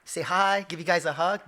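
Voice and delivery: hammed-up exasperation, building to a shout; exasperated protest. Grown son protesting at family dinner, mock exasperated.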